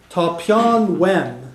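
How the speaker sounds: very slow, careful Irish "tá peann wem"; teacher modelling Irish; Irish phrase demo. Shown as a demonstration. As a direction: spell out "tá peann wem" for learners. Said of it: "I need a pen".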